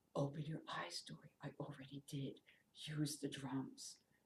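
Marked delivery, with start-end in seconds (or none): 0.2-1.3 barely there, very quiet, soft, hushed half-whisper. Retelling what the voice of the Holy Spirit said: imitating a quiet half-whisper. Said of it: "it was a whisper".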